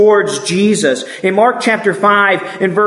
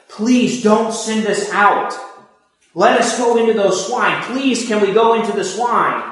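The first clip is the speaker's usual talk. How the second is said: higher, mildly acted plea; begging; 4 semitones higher than usual. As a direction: imitate demons begging for a favor. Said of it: "And they're begging him".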